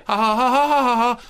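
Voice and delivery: flat sarcastic ha ha ha; deadpan forced laugh; mock laughter.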